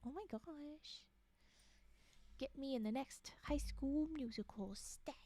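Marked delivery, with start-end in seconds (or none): 2.4-5.1 ASMR whisper. Real, not acted. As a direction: confide it in a breathy hush.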